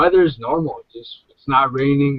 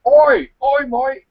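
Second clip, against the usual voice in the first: calling out; 12 semitones higher, 4 dB louder, slower than usual. Acted. Calling out to a stranger.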